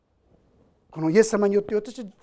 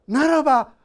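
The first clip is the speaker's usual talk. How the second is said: higher, earnest plea; inviting prayer; 6 semitones higher, 7 dB louder than usual. Pretend. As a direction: open up and invite him in earnestly. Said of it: "心を開く".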